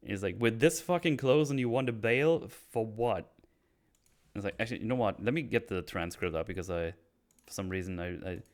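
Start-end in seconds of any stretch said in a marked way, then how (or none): 0.4-3.3 acted anger, higher and louder; a lightly heated accusing question; angry challenge. Oz accuses Vic of bailing, mildly angry. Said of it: "I like how angry Oz is here".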